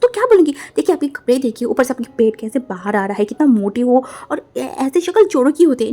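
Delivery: high loud mocking insult; heated loud taunting; angry insult. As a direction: sneer at her loudly. Quarrel, insulting.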